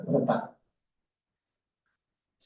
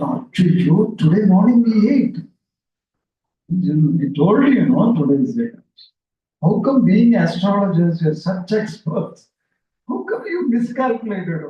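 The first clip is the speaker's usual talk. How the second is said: reproachful; 2 semitones higher, 6 dB louder than usual. Retold or imitated. Lady scolds the astrologers.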